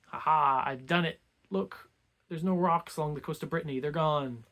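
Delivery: loud "ha ha", then lightly boastful; mock triumph. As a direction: act out a suitor showing off his success. Suitor triumphantly announces the task done.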